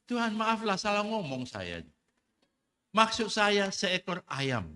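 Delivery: hammed-up apology. Preacher voicing the sailor haggling with God, loud mock plea. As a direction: play the sailor backing out of his vow, loud and drawn out. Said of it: "lalu dia bilang".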